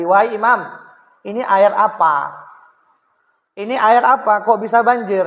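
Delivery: urgent neighbour's question; insistent questioning. Acted. Jewish neighbour demanding about flood.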